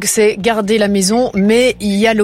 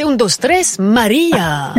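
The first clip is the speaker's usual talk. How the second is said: mock Spanish accent; slower than usual. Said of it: "mon accent espagnol, c'est pas ça".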